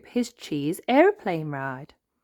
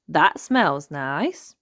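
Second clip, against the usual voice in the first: slow savoring; 4 dB louder, much slower than usual. Acted. Molly sniffing, slow.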